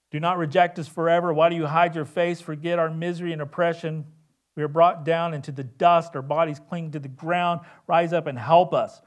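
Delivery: loud pleading psalm cry, fast; crying out to God. Acted. Psalmist crying out to God, loud pleading. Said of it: "And so they cry out".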